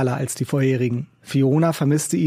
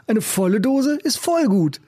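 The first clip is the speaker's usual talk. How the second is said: raised, rough busker voice; gruff old street musician; 9 semitones higher than usual. A narrator's reading. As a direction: play the cynical old busker. Macke tells joke.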